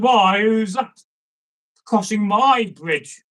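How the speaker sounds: lightly voiced troll guarding his bridge; challenging troll.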